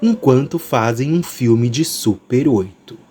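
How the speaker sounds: slow, smooth trailer read; velvety narrator voice. Acted. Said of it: "minha voz aveludada".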